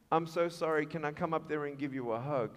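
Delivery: soft, low acted plea; tender, tearful girl. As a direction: ask timidly through held-back tears. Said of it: "someone in the middle of the room weeping".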